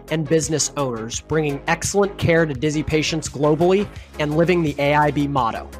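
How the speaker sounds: ordinary delivery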